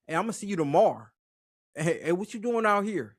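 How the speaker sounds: lightly mimicked California accent with hard R's; imitated Cali hard R's. Guest imitating Cali talk to the host, hard-R accent. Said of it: "especially y'all R's. Hey, that, that's, that's hard".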